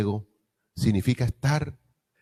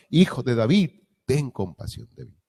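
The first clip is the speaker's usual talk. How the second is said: pleading cry; 4 semitones higher than usual. Retold or imitated. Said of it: "él gritaba mucho más".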